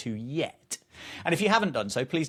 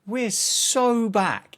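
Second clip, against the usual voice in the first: hyped catchphrase; 9 semitones higher, 5 dB louder, much slower than usual. Acted. Excited show opening catchphrase.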